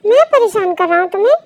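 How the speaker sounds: loud, exasperated comeback; indignant retort. Acted. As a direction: throw the accusation back at her. Boyfriend argues back indignantly. (झल्लाकर पलटवार)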